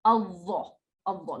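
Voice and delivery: Allah with a thick, rounded first sound; thick rounded letter. Shown as a demonstration. Teacher demonstrating the sound to the class. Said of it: "like this".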